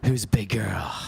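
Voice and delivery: put-on whispered baby-talk coo; dad whispering toddler praise to his wife. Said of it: "phony encouragement voice".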